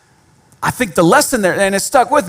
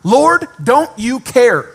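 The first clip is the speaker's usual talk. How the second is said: slow, pleading accusing question to the Lord; lightly voiced Martha, accusing; Martha's accusation; 4 semitones higher, 3 dB louder, slower than usual. Martha confronting Jesus about her workload, mildly accusing. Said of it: "the first thing Martha says".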